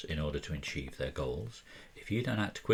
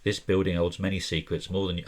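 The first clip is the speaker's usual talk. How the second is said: Nathan voiced in a vague put-on accent, a bit louder; 5 dB louder than usual. Game master voicing Nathan to the investigators in a loose accent. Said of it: "I don't know why I'm doing this accent".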